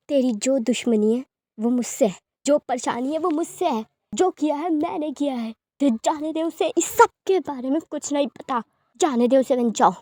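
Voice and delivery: forceful demand. Acted. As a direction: push hard to make him let go. Lover demands the captive's release. (ज़ोर देकर, ऊँची आवाज़ में माँग)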